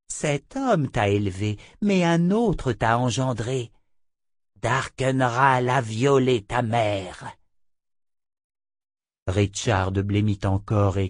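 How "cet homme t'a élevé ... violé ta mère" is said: higher, drawn-out woman's voice; lightly voiced imperious witch, slowing on the name; scornful seer, lightly put on; haughty seer. Narrator voices Chota the seer.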